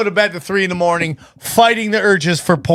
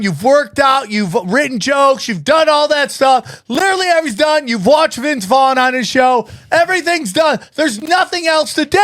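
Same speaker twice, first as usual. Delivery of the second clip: rising rant; 5 semitones higher than usual. Real, not acted. Building comic rant.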